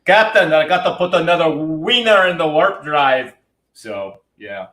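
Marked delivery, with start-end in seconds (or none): 0.1-3.3 lightly voiced starship engineer reporting in; a hint of a starship engineer's report; mock report to the captain; Scotty from Star Trek. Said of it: "as Scotty from Star Trek would say".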